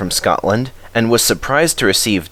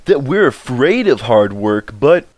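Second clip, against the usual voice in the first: lightly voiced engine, grumbling; grumbling Henry; 3 semitones higher than usual. A narrator's reading. Henry complains to the others, lightly grumbling. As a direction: grumble about the workload. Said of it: "grumbled Henry".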